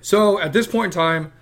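cracking, dry throat voice. Real, not acted. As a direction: voice cracking here and there. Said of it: "my voice keeps cracking".

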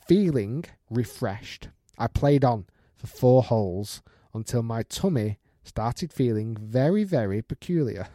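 measured storytelling from an email; story read-out. Acted. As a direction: read it aloud like a tale unfolding. Reads out a listener's email.

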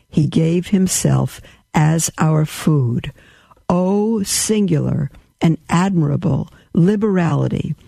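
slow, solemn reading of a sacred text; devotional reading. Acted. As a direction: read it like a prayer of praise. Reads papal bull aloud.

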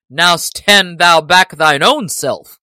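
loud, slow defiant retort; Little John retort. A narrator's reading. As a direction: throw the order right back. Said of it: "quoth Little John".

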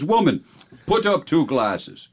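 commanding stage-Irish husband, slowing down; Irish-accented demand, drawn out; horrible Irish accent. Acted. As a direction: order it in a hammy Irish brogue. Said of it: "your horrible accent that makes the joke".

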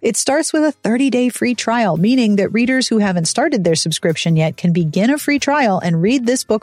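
scripted podcast ad read; polished, lively book-blurb narration. Acted. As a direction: read the book promo smoothly and chattily.

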